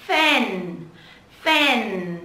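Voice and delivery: "Fan" with a long, falling final n; rõ âm cuối. Shown as a demonstration. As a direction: hold the N closing "Fan". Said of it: "Nhớ âm cuối chúng ta". (đọc "Fan" ngân rõ âm n cuối)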